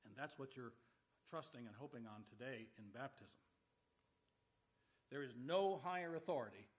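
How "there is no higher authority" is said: loud, emphatic proclamation; preaching at full volume; forceful preaching. Real, not acted. Preacher emphasizing God's authority.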